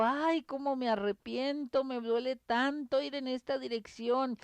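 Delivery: lightly acted tearful sigh of regret; mock crying regret. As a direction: wail your regret at the flood. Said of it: "me pongo a llorar".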